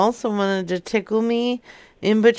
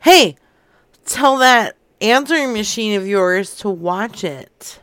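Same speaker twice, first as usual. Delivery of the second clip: a sudden loud hey, then a hammed-up threat; mock angry; 5 dB louder than usual. Prank caller telling the old lady's answering machine off, mock angry. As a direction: bark at the machine, half in jest.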